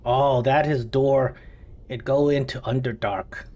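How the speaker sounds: lightly voiced kobold, broken English; simple eager little kobold explaining. Meepo explains the door to the party, lightly voiced kobold. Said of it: "Meepo says".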